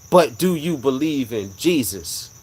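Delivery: slow, drawn-out words, as if echoing through the car; big echoing voice. Retold or imitated. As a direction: retell the divine voice slowly, like an echo. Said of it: "a big echo".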